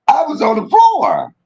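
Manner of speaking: high, still laughing. Real, not acted. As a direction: squeal it through the giggles. Repeats while laughing.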